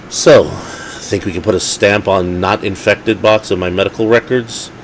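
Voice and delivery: snarled. Acted. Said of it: "he snarled".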